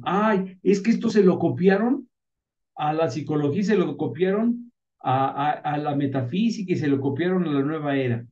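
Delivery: sneering quote of the doubters; mild mock of critics' scorn; mocking critics. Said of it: "que muchos se burlan y dicen".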